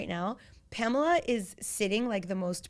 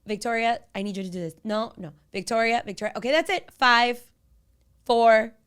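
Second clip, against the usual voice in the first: louder, firmer mom counting down; stern countdown; 2 semitones higher, 7 dB louder than usual. Retold or imitated. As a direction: count down like a warning. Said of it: "I'll be like".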